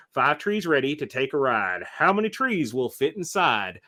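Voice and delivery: sing-song picture-book read-aloud; lilting bedtime-story reading; reading to children. Acted. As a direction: read it with a storybook cadence for the kids. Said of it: "I read with a very specific, specific cadence and voice".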